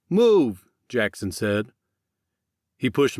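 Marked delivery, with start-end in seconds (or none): 0.1-0.6 short, loud command; angry one-word command, louder; barked order. Acted. Jackson orders Max on.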